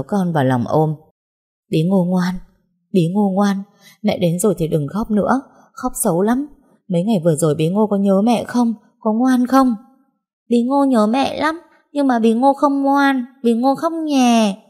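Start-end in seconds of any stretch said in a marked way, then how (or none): 1.7-9.7 put-on higher, sing-song coaxing to a small child; mother gently coaxing her little girl; gentle coaxing. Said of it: "nên tôi cứ ôm con thủ thỉ". 10.5-14.6 put-on much higher, slow small child's voice owning up; a toddler confessing she cried; little girl. Child answers her mother.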